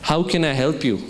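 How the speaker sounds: measured, unruffled offer of help; composed storyteller's quote; calm, composed. Retold or imitated. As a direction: ask it with even composure. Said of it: "a composed voice".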